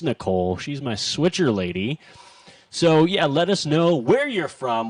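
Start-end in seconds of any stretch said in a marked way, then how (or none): 2.7-3.3 radio host voice. Acted. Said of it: "I sound like a morning radio host". 3.3-4.9 upbeat morning radio host; bright on-air DJ invitation. Acted. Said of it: "I sound like a morning radio host".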